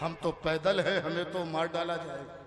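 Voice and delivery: low-pitched, easy recitation; relaxed verse recital. Acted. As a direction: let the couplet land gently. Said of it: "किसी शेर को आराम से पढ़ूंगा". (आराम से, नीची आवाज़ में)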